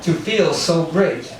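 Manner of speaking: lightly voiced Trump, slow and drawn out; a hint of Trump's voice; Trump impression. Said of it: "Okay, that's my Trump".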